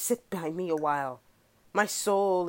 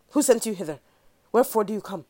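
alarmed questions; 2 semitones higher, 6 dB louder, much faster than usual. Acted. Clarence confronts murderers.

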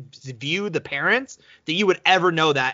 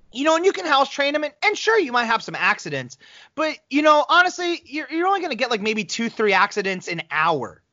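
higher, chirpy breezy voice; mock chicken lady; 5 semitones higher than usual. Woman on video about chickens, chirpy mock cheer. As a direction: chirp it like a carefree video host. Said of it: "she's like".

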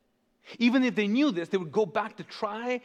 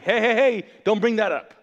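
acted shout of protest; loud mock alarm, hushing a taboo subject; loud objection; 3 semitones higher, 8 dB louder than usual. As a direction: cut someone off loudly, voicing an affronted crowd. Acted objection from offended listeners.

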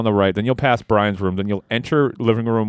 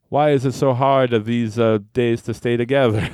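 put-on Italian accent. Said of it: "screamed angrily in an Italian accent".

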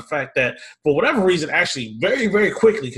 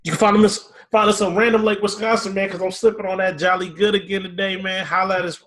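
hyped shout-out; 6 semitones higher than usual. Acted. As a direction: shout out to the sponsor.

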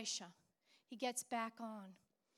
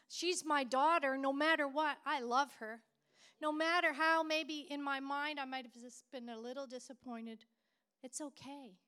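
emphatic self-talk; 3 semitones higher, 6 dB louder than usual. Retold or imitated. Mother's retold self-talk, rising.

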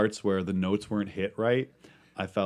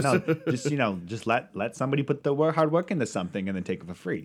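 put-on old Italian lady; 3 semitones higher than usual. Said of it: "you're doing an old Italian lady thing".

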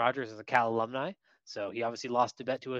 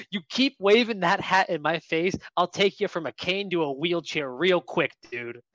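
a slightly raised, dead-serious warning; imitated serious threat; 3 semitones higher, 3 dB louder than usual. Cal fan to old man with cane, serious threat. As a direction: threaten him in full seriousness. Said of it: "In full serious".

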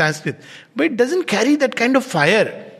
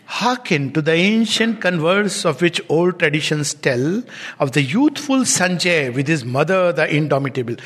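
measured recitation of epic verse; solemn poem recital; poem reading; 3 semitones lower than usual. Acted. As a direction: read it like an old ballad. Reads Aurobindo's verse aloud.

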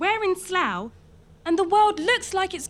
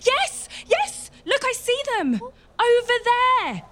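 excited shouting; 3 semitones higher, 3 dB louder than usual. Acted. Sighting approaching armies.

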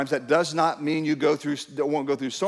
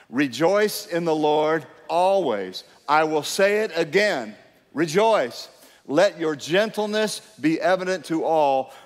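reading aloud together; slower than usual. Real, not acted. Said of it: "could we read it out loud together".

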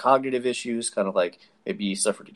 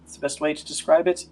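lightly raised, hesitant healer voice; an unsure healer, a bit higher; Augusta; 4 semitones higher than usual. Acted.

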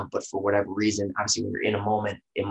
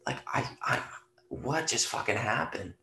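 drained and dazed; 7 dB quieter than usual. Retold or imitated. An actor after a draining scene, exhausted and dazed. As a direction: let it fall out of you, spent.

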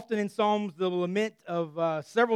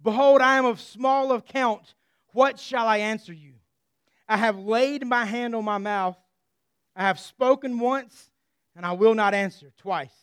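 louder, earnest plea; humbled Job; 2 semitones higher, 4 dB louder than usual. Acted. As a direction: Job owning up in a raised voice. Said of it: "Job interjects and he says".

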